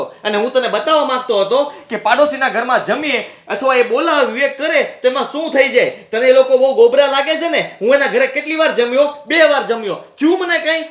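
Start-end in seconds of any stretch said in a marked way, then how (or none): 5.9-10.8 raised voice. Acted. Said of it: "આટલી બધી રાડો શું પાડો છો?".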